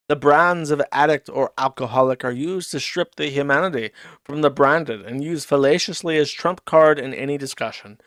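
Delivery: deliberate, measured read-aloud delivery; mock-formal diary reading. Commentator reading Ricada's diary post to chat, mock-formal. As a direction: read it out like a solemn diary entry.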